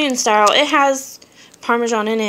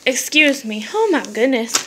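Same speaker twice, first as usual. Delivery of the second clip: breathless after coughing; winded, catching her breath. Real, not acted. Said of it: "Whew, I'm out of breath".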